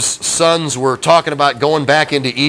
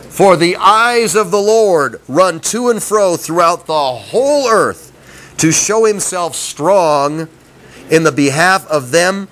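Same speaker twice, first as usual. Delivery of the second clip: mock misreading; 3 semitones higher than usual. Shown as a demonstration.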